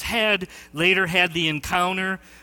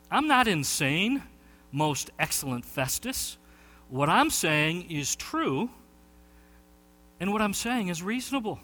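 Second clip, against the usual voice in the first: softer, measured reply; calm, dignified; 4 dB quieter than usual. Retold or imitated. Paul answering Festus, a calm dignified reply. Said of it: "calm, cool, dignified".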